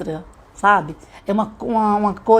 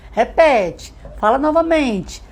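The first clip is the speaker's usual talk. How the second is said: raised-pitch encouraging instruction; teacher prompting child; 5 semitones higher, slower than usual. Acted. Teacher asking the child to repeat, encouraging. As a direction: prompt a small child to try once more.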